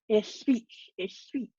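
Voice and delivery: toothless lisp on "It's speech"; "speech" said with a lisp, no teeth. A narrator's reading. Father without dentures lisps at wife and daughter, lisping. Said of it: "so he lisped when he said".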